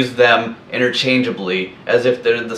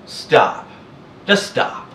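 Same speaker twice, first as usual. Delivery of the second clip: exasperated; 3 semitones higher, slower than usual. Real, not acted. Exasperated dismissal of posers.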